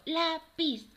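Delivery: put-on teacher segmenting "lápiz" for children; syllable by syllable. Shown as a demonstration. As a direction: split "lápiz" into separate syllables. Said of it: "Tiene dos sílabas".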